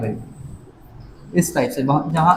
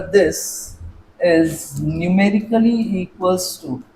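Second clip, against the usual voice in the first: very slow, word by word, with repeats; slow dictation; much slower than usual. Shown as a demonstration. Teacher dictating a note for students to copy, very slow. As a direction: dictate the rule so they can write it. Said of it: "note करके लिखेंगे कि".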